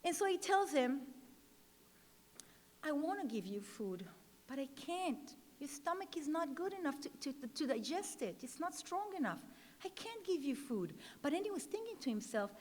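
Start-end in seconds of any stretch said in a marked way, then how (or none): 2.8-10.9 much softer, tender and sorry; gentle refusal. Retold or imitated. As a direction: soldier softly tells the child no. Soldier gently refuses starving child.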